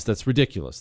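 ordinary talk

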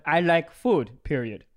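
a hint of broken-English accent; lightly changed foreign voice. Comic reads a Croatian pen pal's letter, lightly accented voice. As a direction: read it with a slight foreign pen-pal accent. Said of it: "You just change your voice a little".

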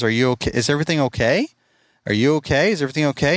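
mildly stunned retold questions, rising slightly; shocked concern. Boss to the employee who just quit, shocked. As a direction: repeat the worried check, lightly acted. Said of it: "I was just so shocked".

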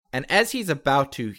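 dramatic action narration; game master's scene setting. Acted. Game master describes the tackle to the players, dramatic narration. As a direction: narrate the attack with punchy emphasis.

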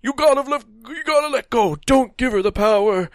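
overdone pleading professor; mock pleading. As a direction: beg her dramatically. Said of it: "he's like".

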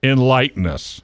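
theatrical, inviting tone; grand prompt. Shown as a demonstration. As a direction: announce it with a flourish. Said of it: "How's that?".

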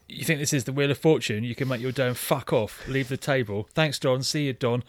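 mildly heated, sneering tirade; imitating a film villain's contempt; aggressive recited speech. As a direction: recite a scornful dismissal without faltering. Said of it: "it's so aggressive".

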